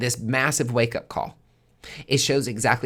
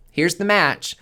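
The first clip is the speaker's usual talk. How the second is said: higher, louder, slow, laughing through it; laughing repeat; 7 semitones higher, 6 dB louder than usual. Acted. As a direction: offer it again with a laugh. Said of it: "The universe is being like".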